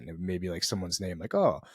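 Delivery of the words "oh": higher-pitched, lightly put-on Swedish accent; mock Swedish accent. Introducing himself with an odd name, mock Swedish accent. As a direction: playfully try on a Swedish accent. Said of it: "like, a Swedish accent".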